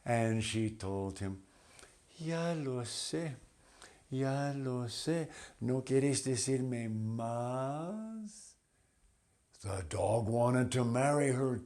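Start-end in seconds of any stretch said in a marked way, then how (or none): 2.2-8.5 soft, higher teasing reply; coy butterfly. Acted. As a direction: answer sweetly, a little coy. Butterfly answers dog.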